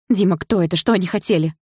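put-on girl running to her boyfriend, alarmed; exclaiming. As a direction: rush the questions out. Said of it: "воскликнула я".

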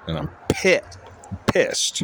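breaking off on a hiccup, then whispering. Real, not acted. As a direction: pitch jumps up mid-word on a hiccup. Now I have the hiccups.

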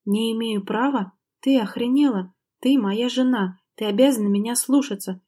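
furious declaration. Acted. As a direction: hammer home that she must obey. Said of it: "яростно заявил Максим".

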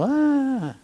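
a jittery burst of nerves; amped-up gasp. Retold or imitated. Meditator sitting down all amped up, mock frazzled gasp. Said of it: "we're all".

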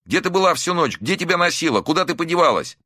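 high, frantic scolding; angry scolding. A narrator's reading. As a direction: scold her in frightened anger. Son scolds missing mother.

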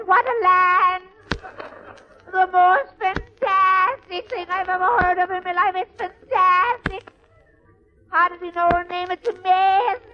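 high, amazed Irish brogue, marvelling; wide-eyed greenhorn in a thick Irish lilt; Irish accent. Acted. Irish newcomer to Sullivan's new land, high amazed brogue. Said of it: "this is an Irish story".

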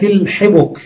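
"الحبك" said ḥibuk, i then u; kasra then damma. Shown as a demonstration. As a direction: say "الحبك" with short i on ح and short u on ب. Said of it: "بكسر الحاء وضم الباء". (نطق "الحبك" بكسر الحاء وضم الباء)

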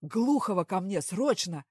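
a boss's loud urgent command. A narrator's reading. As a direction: summon him at once. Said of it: "громким голосом скомандовал".

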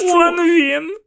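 put-on high, urgent child's cry; a scared boy pointing at the ghost; frightened boy pointing. A narrator's reading. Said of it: "показав я".

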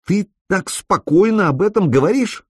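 shocked she asks it at all; alarmed disbelief. A narrator's reading. Alena alarmed by his calm.

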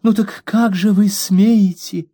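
slow, high indignant challenge; mock outrage at the maid; high, slow how-dare-you. A narrator's reading. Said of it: "продолжала моя мать".

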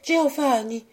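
high, gentle appeal; lightly voiced grieving heroine; calm, sorrowful address. A narrator's reading. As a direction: call him with pained restraint. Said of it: "reprit Béatrix avec calme".

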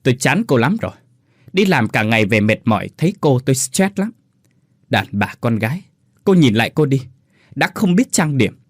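husband berating wife; harsh grinding contempt. Acted. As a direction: berate her with disgust. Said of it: "rồi gằn giọng".

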